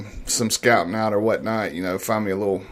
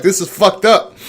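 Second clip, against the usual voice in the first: high, loud mock teen complaint; son's outraged quote; 9 semitones higher, 7 dB louder than usual. Son blurting it out in a crowded theater, high and loud. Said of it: "My son was like".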